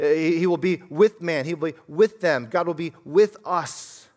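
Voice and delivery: WITH punched in each phrase; stress on WITH. Shown as a demonstration. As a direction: lean hard on the word "with" every time. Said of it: "There's an emphasis there".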